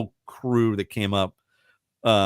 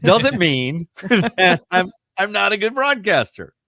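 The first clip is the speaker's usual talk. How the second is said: retold rant; 7 semitones higher, 3 dB louder than usual. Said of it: "I'm sorry, I cursed".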